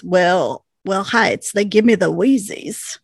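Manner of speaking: a light hint of a cute, bashful voice; cutest voice. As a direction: say it sweetly, lightly shy. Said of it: "like, the cutest voice".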